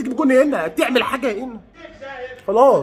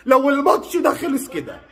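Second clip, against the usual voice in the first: high, drawn-out fan outburst; exasperated outburst; 4 semitones higher, slower than usual. Real, not acted. Frustrated fan ranting at his team during the match, exasperated outburst. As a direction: cry it out high, stretching the words.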